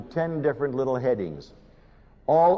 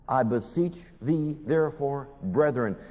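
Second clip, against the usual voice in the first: soft plea. Retold or imitated. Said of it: "I want you to know that".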